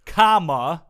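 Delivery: "comma" read out loud and rising. Acted. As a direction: announce the comma with outrage. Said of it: "the comma made me angry".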